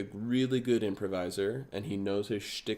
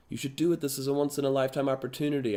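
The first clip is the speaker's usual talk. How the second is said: urging; 4 semitones higher, faster than usual. Acted. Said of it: "torn between".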